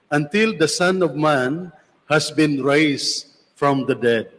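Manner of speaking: solemn, measured scripture reading; gospel reading. Acted. Priest reads the Gospel aloud.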